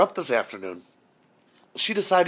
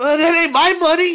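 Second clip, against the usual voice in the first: retold angry father; 9 semitones higher, 4 dB louder than usual. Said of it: "father's reply".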